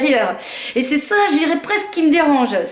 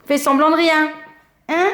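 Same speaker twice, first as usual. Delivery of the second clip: talking to a pet; 5 semitones higher than usual. Real, not acted. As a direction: tease the cat playfully. Speaks to the cat directly.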